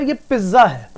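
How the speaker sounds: पिज्जा with a long zz, no t sound; common mispronunciation. Shown as a demonstration. Teacher quoting most students' mistake, mispronounced. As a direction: say पिज्जा as "piz-za", drawn out. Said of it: "ज्यादातर बच्चे इसे बोलेंगे कि".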